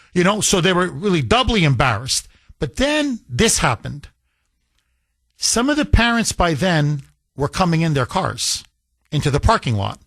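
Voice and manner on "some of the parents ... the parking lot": usual speaking voice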